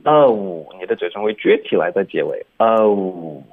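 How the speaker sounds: "Oh" closing to a puckered "oo"; rounded ending. Shown as a demonstration. Teacher showing lip shape, "Oh" closing to oo. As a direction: end "Oh" with pursed lips. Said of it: "有一个".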